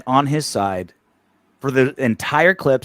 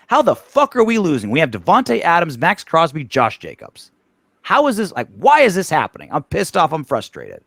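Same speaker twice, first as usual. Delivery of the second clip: a higher-pitched fan venting over a losing team; frustrated fan; 4 semitones higher than usual. Retold or imitated. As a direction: throw up your hands like an upset fan in the stands. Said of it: "he kinda sounds like a fan".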